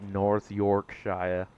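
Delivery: North Yorkshire said slowly, each syllable careful; slow careful stab at North Yorkshire; attempting a British place name. Shown as a demonstration. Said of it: "how do you people say that".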